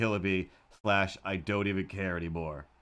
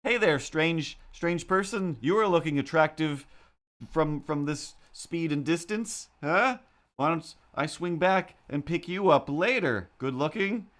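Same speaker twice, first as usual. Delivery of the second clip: higher, hammed-up sleazy flirt; cartoonish catcaller; 6 semitones higher than usual. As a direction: play a lightly voiced Simpsons-ish creep. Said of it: "the best I can come up with".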